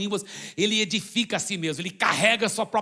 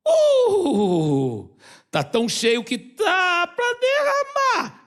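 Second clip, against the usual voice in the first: amazed overflowing; 9 semitones higher, 4 dB louder, much slower than usual. Acted. Overflowing cup demonstration.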